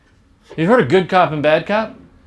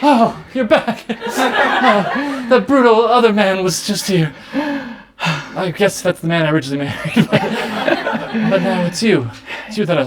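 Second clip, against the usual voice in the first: fond wife; 3 semitones higher than usual. Acted. Wife greets husband.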